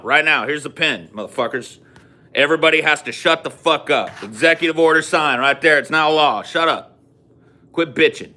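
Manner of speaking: fed-up leader yelling at the nation; mock angry president. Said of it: "imagine T J giving a presidential ad-, uh, address".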